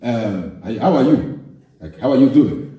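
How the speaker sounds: a hint of a laid-back South African greeting; mild South African accent, relaxed friendly hello. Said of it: "the way they talk".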